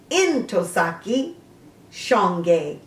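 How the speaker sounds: "Ntozake" said in-TOH-sah-kee, rising at the end, then "Shange" said SHAHNG-gay, falling; a careful demo of "Ntozake Shange": in-toh-SAH-kee, SHAHNG-gay; pronouncing the name. Shown as a demonstration. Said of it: "it is pronounced".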